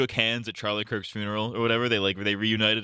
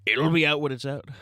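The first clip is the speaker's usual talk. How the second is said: raised, put-on presidential voice; Trump impression; 4 semitones higher than usual. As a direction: do a mock Trump. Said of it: "doing a Trump impression".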